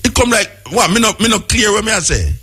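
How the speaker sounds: high-pitched, heated protest; heated arguing. Real, not acted. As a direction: cut in hard and argue your point. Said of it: "Nobody come like a quarrel up here".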